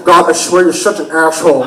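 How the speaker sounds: mock annoyed brother, S as sh; brother's slurred S. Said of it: "the way he says his S's".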